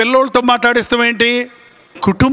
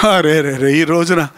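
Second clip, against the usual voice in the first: lament; 5 semitones lower than usual. Real, not acted. Preacher laments, low groan.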